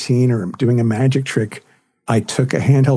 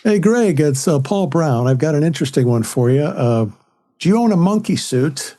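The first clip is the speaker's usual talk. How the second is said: imitating dad's voice; 2 semitones higher than usual. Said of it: "He would pretend to be my dad".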